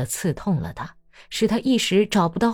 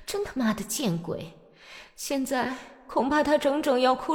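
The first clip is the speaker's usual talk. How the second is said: soft, raised inner grumble; scolding herself; 8 semitones higher, 7 dB quieter than usual. Acted. Daria inwardly cursing herself for telling Natalya, hushed. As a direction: mutter your regret to yourself. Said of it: "达利亚心里埋怨自己".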